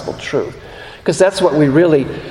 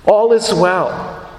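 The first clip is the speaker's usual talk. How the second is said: slow reassurance; much slower than usual. Shown as a demonstration. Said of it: "the double emphasis here".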